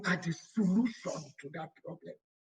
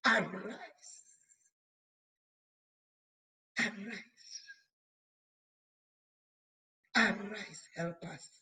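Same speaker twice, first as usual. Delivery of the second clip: rallying call; 3 semitones higher than usual. Real, not acted. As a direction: rouse the sleeping helpers. Preacher rallies the women.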